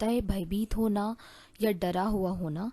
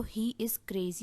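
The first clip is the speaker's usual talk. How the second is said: whisper; 6 dB quieter, much slower than usual. Shown as a demonstration. Example sentence.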